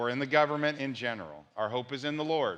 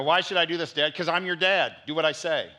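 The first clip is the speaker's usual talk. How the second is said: put-on louder, the kid whining why, dad answering firm; mock child and dad exchange; 3 semitones higher, 4 dB louder than usual. Pastor acting out a kid arguing with dad. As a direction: play both sides of a family spat.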